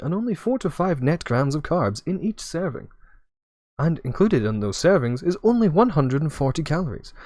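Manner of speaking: upbeat sales pitch read; infomercial voice. Acted. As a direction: sell it like a TV ad. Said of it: "I'm gonna do my best, like, infomercial voice".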